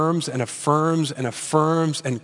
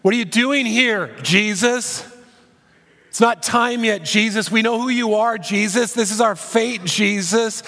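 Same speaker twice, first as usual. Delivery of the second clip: higher-pitched mock cry of protesting demons; lightly hammed demon outcry, high and pleading; 6 semitones higher than usual. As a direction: act out demons crying out at Jesus, pitched up. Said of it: "you have this crying out".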